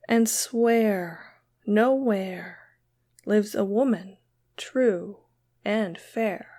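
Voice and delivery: slow, measured recital with long pauses; poem reading. Acted. Reading a poem aloud to viewers, slow recital. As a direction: recite each line deliberately, letting it settle.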